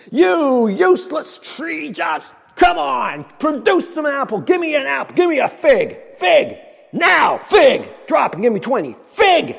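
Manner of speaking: barking drill sergeant shouts. Pretend. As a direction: bark orders at a lazy recruit. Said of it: "we can drill sergeant".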